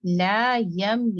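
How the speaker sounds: very slow ला with full mouth; heavy, full ला in ला यम. Shown as a demonstration. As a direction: round and fill the mouth on ला. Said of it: "मुंह को मोटा करके".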